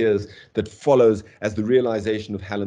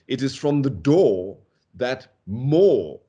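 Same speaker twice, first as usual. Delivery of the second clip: slow, with "more" held long and punched; emphatic stress on "more"; 3 semitones higher, 3 dB louder, slower than usual. Shown as a demonstration. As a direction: draw out "more" as the surprise word. Lecturer stresses contrast with "no more.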